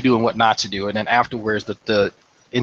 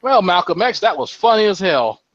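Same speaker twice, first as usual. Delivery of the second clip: higher-pitched, amused retold voice; Sergeant Major Trammell; 8 semitones higher, 3 dB louder than usual. Sergeant major to medic after the scolding, amused imitation. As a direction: lightly imitate a tickled superior. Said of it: "here comes Sergeant Major Trammell".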